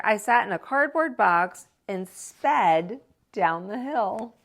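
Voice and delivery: lively, expressive read-aloud voice; story narration. A narrator's reading. Teacher reading a picture book to children, lively storytelling. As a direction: read it like to a class of kids.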